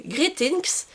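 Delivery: slow, careful English accent on a book title; carefully sounding out the English words, slowly, with her English accent. Shown as a demonstration. Booktuber reading an English category title, slow English accent. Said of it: "vous m'excuserez pour mon accent anglais".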